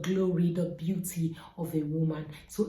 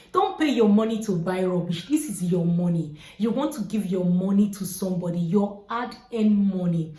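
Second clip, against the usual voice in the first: louder, emphatic warning; firm insistence; 6 dB louder than usual. Real, not acted. Hair vlogger warning viewers about their money, loud and emphatic. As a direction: press the point hard on the viewers.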